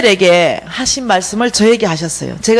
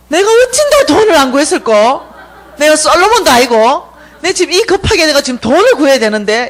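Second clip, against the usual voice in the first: raised, emphatic mock lament; retold disappointment; 3 semitones higher, 4 dB louder than usual. She regrets her dream answer on waking, exasperated lament. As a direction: complain with stressed, higher words. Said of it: "너무 섭섭해가지고".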